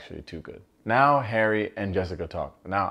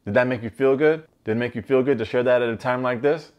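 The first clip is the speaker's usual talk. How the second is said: mock confrontation; 3 semitones higher than usual. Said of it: "Jessica talking to the pain".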